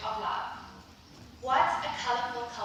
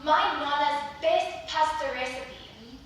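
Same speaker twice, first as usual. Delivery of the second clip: boasting Italian. Retold or imitated. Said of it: "an Italian boasting about".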